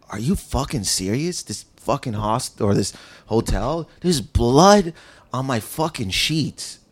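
slow, stunned disbelief; retold disbelief. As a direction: spell out the outrage slowly and quietly. Waking to bloody sheets, retold disbelief.

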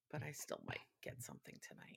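whispered conspiratorial aside; breathy secret whisper. Real, not acted. Sneaky aside about getting takeout.

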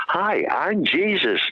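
slow, gentle and soft-spoken. Retold or imitated. The stranger on the train introduces himself, slow and soft-spoken. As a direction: greet him slowly and kindly, softly. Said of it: "in a soft-spoken voice".

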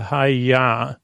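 drawn-out karate-chop cry, lightly voiced; slow, understated mock karate cry; Miss Piggy. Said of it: "is Miss Piggy".

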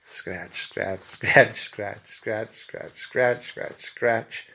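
repeated scratchy word as a sound effect; imitated scratching noise. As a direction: voice frantic scratching, uneven in volume. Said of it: "making this noise".

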